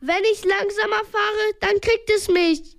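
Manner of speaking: lightly acted breathless protest; storyteller's understated gasp. A narrator's reading. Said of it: "japste Peter".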